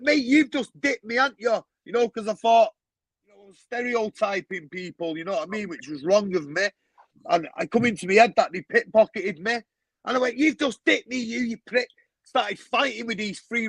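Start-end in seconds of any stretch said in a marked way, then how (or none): 0.0-1.6 high, heated accusation; accusing yell. Retold or imitated. Pushes the men, accusing them. 10.4-11.9 pitched high, furious; angry accusation. Retold or imitated. Accusing the Romanians, fight starts.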